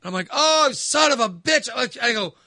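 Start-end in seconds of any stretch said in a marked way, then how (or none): 0.3-1.7 slow, loud, high curse; pained curse. Retold or imitated. Son spilling hot coffee on himself, loud high curse. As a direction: yelp it as coffee burns.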